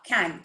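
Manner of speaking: can begun with an airy 'kh'; aspirated k. Shown as a demonstration. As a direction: puff the first sound of can. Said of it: "It's a ख". (can को 'ख' से शुरू करके)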